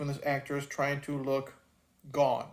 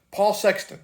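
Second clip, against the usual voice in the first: ordinary talk, nothing marked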